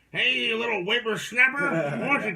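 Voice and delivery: shouting at trespasser. Retold or imitated. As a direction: yell like a cranky old man. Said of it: "waiting for the one person".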